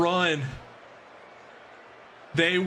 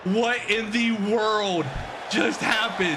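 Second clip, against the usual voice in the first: stunned disbelief; 3 semitones higher than usual. Real, not acted. Stunned after the winning play.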